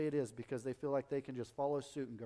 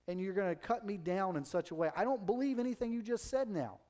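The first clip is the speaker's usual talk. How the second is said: mildly indignant rebuke, pitch rising at the end; indignant retort; 5 semitones higher than usual. Acted. Hurt person answering the joker who cut them down, indignant retort. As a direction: push back in disbelief.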